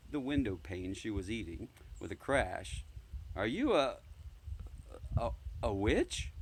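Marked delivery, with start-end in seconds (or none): 3.3-6.3 gasped. Acted. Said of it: "she gasped".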